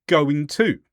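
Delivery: "going to" linked as goin-to; connected-speech "going to", no hard g; dropped consonant. Shown as a demonstration. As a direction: drop the g before the t in "going to". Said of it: "drop the consonant at the end".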